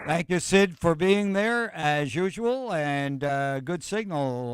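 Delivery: like a faulty vintage mic; carbon microphone. Real, not acted. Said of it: "it sounds like an old carbon mic".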